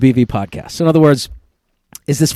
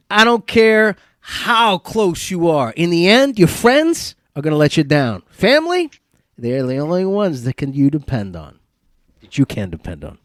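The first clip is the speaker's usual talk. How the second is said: put-on Italian accent. Host reads a quiz line about family, solemn Italian accent. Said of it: "Use my best Italian accent".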